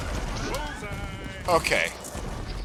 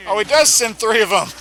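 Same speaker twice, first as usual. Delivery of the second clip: exasperated outburst; 8 semitones higher, 9 dB louder than usual. Real, not acted. Dreaded attack happens.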